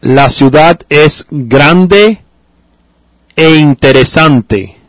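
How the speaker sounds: slow, clear Spanish for students; slow model answer. Shown as a demonstration. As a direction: spell it out slowly for the class. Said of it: "Okay, very good".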